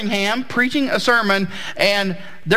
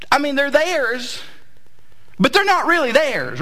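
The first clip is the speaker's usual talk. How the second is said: high, playful mock-preacher proclamation; booming motivational speech; 7 semitones higher than usual. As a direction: proclaim it like a joke sermon. Playful parental ownership claim.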